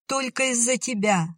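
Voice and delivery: a high despairing call after someone leaving; high pleading cry after a rider; desperate cry. A narrator's reading. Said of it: "в отчаянии закричала она ему вслед".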